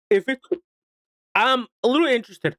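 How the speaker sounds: talking through hiccups. Real, not acted. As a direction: voice jolted by hiccups. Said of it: "I'm hiccuping now".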